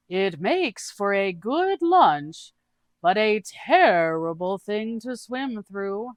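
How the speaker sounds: high, slow, drawn-out quirky voice; odd character voice. Acted. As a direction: stretch each word out in a high, cheerful oddball voice. Doog's voice again.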